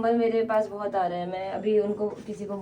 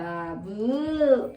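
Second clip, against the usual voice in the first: long drawn-out babu; mock Sumit calling someone babu; imitating Sumit; much slower than usual. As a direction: stretch babu out slowly, teasing Sumit. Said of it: "ऐसे कह रहा सुमित".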